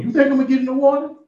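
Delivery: high, fast disbelieving question; can't believe what he's hearing; incredulous. Retold or imitated. Preacher as the boy, asking in disbelief.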